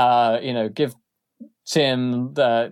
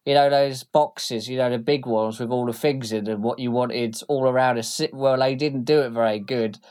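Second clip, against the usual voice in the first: oily, ingratiating thug voice; fawning thug. Acted. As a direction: suck up to the boss. Tim addresses Mister Wick.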